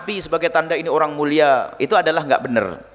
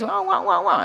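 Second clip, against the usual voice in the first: mock paid-mourner wail, pitched up; badly faked crying; fake wailing; 5 semitones higher than usual. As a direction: imitate put-on bawling without real tears. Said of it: "Nangis kasih lima puluh ribu".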